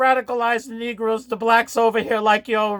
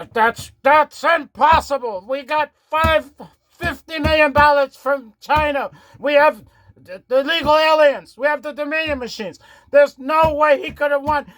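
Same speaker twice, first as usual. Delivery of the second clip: lightly voiced doddering Biden; Biden impression; 3 semitones higher than usual. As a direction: play a confused old president. Comic Biden impression on phone.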